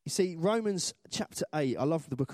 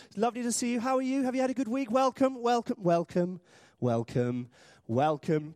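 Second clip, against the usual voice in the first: high, busy stream of greetings; louder with each welcome; gushing church greeter; 6 semitones higher, 3 dB louder than usual. Retold or imitated. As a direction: parody relentless door-greeter cheer. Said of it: "They say".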